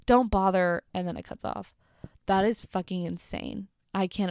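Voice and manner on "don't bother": louder, indignant read of an angry mom's message; mock rude reply. Friend reading a rude seller's reply, mock indignant. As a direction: read it like the offended seller snapping back.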